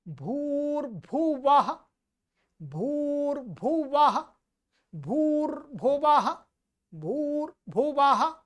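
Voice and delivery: भूर्भुवः repeated with an open 'w' and echoed 'ha'; correct V sound. Shown as a demonstration. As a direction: drill भूर्भुवः as bhoor-bhu-va-ha. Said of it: "ब नहीं है". (भूर्भुवः में साफ़ व)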